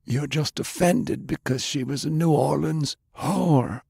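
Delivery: Browning's voice. Acted.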